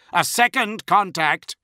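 high, slow, loud alert; crying out. A narrator's reading. Tracking officer announcing another ship, crying out. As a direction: call the alarm across the bridge. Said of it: "the tracking officer cried".

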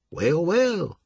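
high sneering drawl; gloating villain. A narrator's reading. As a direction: savor catching him. Villain gloating behind Marsh.

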